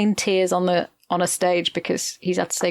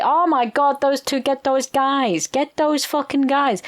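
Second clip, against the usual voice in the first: mock panic; 5 semitones higher than usual. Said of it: "and they say".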